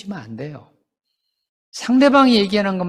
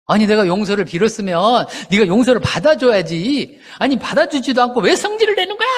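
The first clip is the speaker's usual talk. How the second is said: higher, rising reproach; indignant parent; 5 semitones higher than usual. Retold or imitated. A parent scolding the child who won't accept the apology. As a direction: scold the child for not forgiving.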